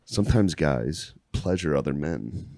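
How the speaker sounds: mock solemn teacher.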